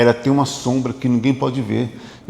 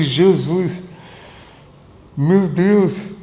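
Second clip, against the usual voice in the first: exclaimed higher, in disbelief; a retold "good heavens" with raised pitch; mock astonishment; 4 semitones higher, much slower than usual. Therapist reacting to a client's thirteenth marriage, mock astonishment.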